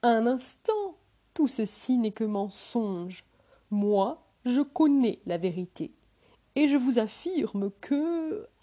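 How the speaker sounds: loud cutting-in scholar; interrupting loudly. Acted. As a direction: barge in and drown him out. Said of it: "un autre savant lui coupe la parole".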